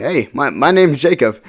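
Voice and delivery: slow, cheeky self-introduction; smart-aleck. Retold or imitated. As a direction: introduce yourself like a wise guy, drawn out. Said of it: "I was being such a smart aleck".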